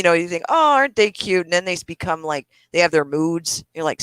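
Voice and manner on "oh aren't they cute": mock cooing. Acts out cooing over cute kids.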